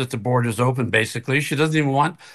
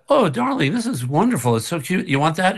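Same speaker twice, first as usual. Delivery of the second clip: mock gushing; 4 semitones higher than usual. Mock gushing praise of wife's book.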